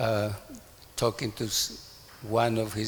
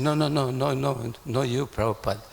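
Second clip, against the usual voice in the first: higher, louder imitated protest; flustered backpedalling, retold; acted hasty denial; 3 semitones higher, 5 dB louder than usual. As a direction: play someone rushing to take it back. Acting out the visitors' hasty denial.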